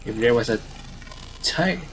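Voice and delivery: upbeat field reporter pitching the news; lightly voiced newscaster. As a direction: sell it like an eager correspondent.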